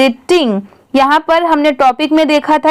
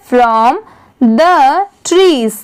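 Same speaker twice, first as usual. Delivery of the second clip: slow classroom reading; much slower than usual. Shown as a demonstration. Reads English line aloud.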